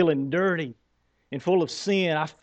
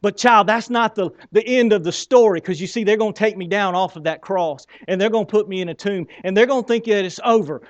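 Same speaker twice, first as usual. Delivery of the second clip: excited; 3 dB louder than usual. Acted. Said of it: "I get so excited".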